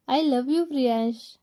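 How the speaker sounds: shy tender confession. Acted. Wife finally says it properly.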